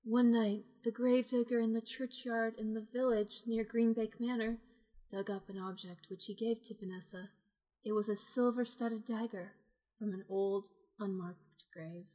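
even storyteller read; story narration. A narrator's reading. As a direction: narrate it like a gossip column. Game master reading scene.

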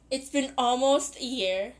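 voice cracking. Real, not acted. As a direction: voice cracks mid-phrase. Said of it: "did you just hear my voice crack".

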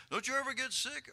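loud, high-pitched disbelieving question; incredulous questioning. Acted. The world questioning an always-happy believer, incredulous.

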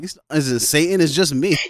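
laughing, half-shouted mock reply; laughing retort. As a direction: laugh it off at mom's fear. Carrie mocking mom's Satan fear.

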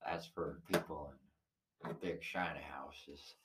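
mock country accent. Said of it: "what kind of an accent was that?".

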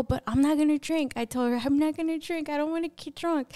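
retold insistent refusal. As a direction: replay yourself firmly warning a friend.

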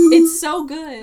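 loud and high, insisting; loud insistence. Real, not acted. Insisting cotton candy tastes good.

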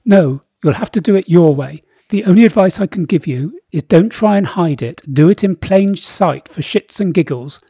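booming royal decree; pompous king voice. Acted. Boris again.

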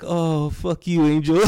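loud, high, drawn-out curse; laughing mock exasperation, stretched out slow; mock outburst. Retelling what he said to Angel, loud mock outburst.

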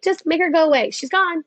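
imitating a husband sending someone off; husband's advice. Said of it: "He's like".

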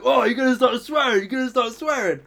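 high, loud mock indignation; put-on outrage; imitated affronted customer. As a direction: act out a customer taking loud offence. Retold customer taking offence.

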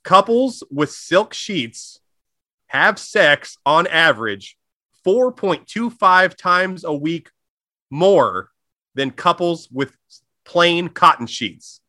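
slow, spaced-out announcer delivery; dramatic fact reveal. Acted. Host unveils a fact for listeners, slow and dramatic. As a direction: draw each phrase out with weighty pauses.

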